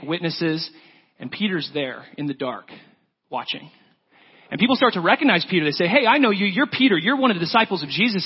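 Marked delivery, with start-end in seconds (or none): 5.9-8.3 louder, higher, pointing him out; accusing call-out. Retold or imitated. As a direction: catch him out, half-shouting. Bystanders accuse Peter.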